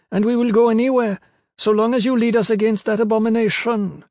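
very high, insistent character voice; high-pitched pygmy woman. A narrator's reading. Pygmy woman telling Kip of her lost home, high-pitched. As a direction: plead the people's case in a high voice. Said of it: "her voice high-pitched".

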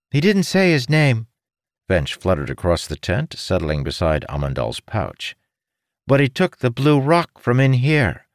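high squeaky creature; a high little critter voice; small creature voice. A narrator's reading. Finch creature voice.

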